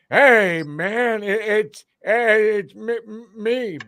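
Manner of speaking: amped-up pitch for a pillow seller; mock pitchman. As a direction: hype it like a late-night ad guy. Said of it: "I know what he wants".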